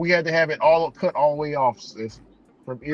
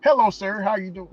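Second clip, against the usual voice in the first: mock polite voice; 3 semitones higher than usual. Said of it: "I don't change my voice up like".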